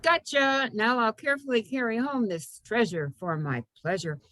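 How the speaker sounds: lightly acted gleeful fruit picker; playful poem reading with a falling lilt; poem's human voice. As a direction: pounce on the first word, then recite.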